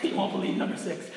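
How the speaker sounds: breathy clickbait teaser; mock clickbait hype. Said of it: "it's like the clickbait style".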